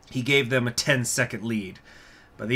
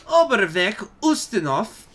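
gruff; 9 semitones higher, 5 dB louder than usual. Acted. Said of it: "with a gruff".

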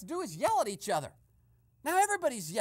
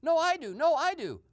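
mock bickering, a bit louder; retold yelling; 5 semitones higher, 5 dB louder than usual. Mimicking mayoral wannabes arguing over the job, retold yelling. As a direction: mimic rivals shouting over each other, half-shouted. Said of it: "All the mayoral wannabes are yelling now".

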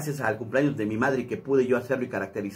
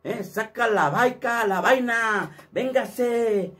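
high, slow cholo slang drawl; much higher, drawn-out cholo talk; cholo accent; 8 semitones higher, much slower than usual. Shown as a demonstration. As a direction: challenge them like a street cholo. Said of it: "Así habla más o menos".

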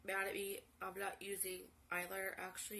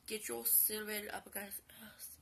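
whispered insult; 5 dB quieter than usual. Retold or imitated. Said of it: "I'm like".

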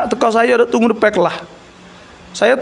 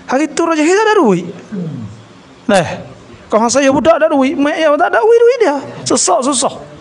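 rising excitement; 5 semitones higher than usual. Real, not acted. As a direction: pitch rising line by line into duit dia. Telling the poor boy's story excitedly.

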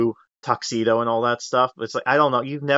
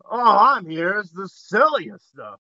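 put-on Southern accent; 5 semitones higher than usual. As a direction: play a smooth Southern huckster in a Southern accent. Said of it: "I love the accent I gave him".

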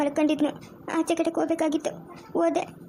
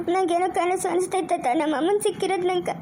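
crying. Acted. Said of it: "ಯಾಕೆ ಅಳೋದು ನೀನು?".

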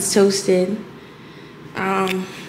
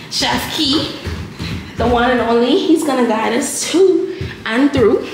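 hype introduction; 3 semitones higher, 6 dB louder than usual. Acted. Hyping up her husband chef.

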